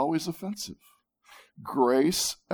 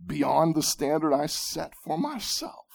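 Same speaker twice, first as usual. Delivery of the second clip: indignant retort. Pretend. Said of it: "his prideful heart jumps up and says".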